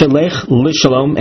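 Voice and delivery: "Lishalom" with its first consonant, the L, emphasized; stress on Lishalom. Shown as a demonstration. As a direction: lean on the opening L of "Lishalom". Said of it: "emphasis on the Lamed".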